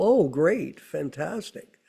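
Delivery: dry sarcastic fake cheer. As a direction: say it like you mean the opposite. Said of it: "Do you go".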